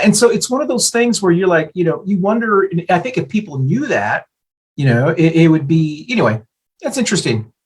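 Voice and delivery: talking while eating chips; crunching chips. Real, not acted. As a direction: mouth full of chips. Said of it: "I'm eating chips while we're".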